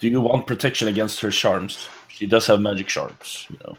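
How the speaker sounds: hushed, close half-whispered aside. Half-whispering into a companion's ear in character, warning about her charms: half-whispering in character. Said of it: "I'll whisper into Rick".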